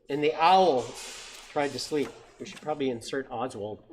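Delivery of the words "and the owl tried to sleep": stretched, emphatic picture-book opening, then rhythmic refrain; read-aloud storytelling. A narrator's reading. Reading an owl picture book to children, lively storytelling. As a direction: read it out big for small listeners.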